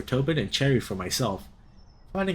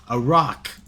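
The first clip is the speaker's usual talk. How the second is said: unison shout; 6 dB louder than usual. Acted. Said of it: "they spoke in unison".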